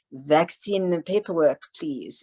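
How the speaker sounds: mock French accent, drawn out; slow French-accented request. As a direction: imitate a French maitre d'. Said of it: "in this French accent".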